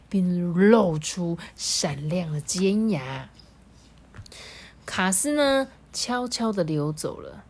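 animated storytelling with drawn-out key words; lilting, measured storybook delivery; story narration. A narrator's reading. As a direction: read slowly and expressively to children. Reads a story to children.

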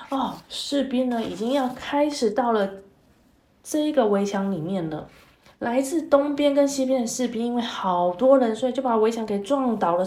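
put-on lively, expressive story voice for kids; storytelling to children. A narrator's reading. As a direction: read it like a bedtime tale for little ones.

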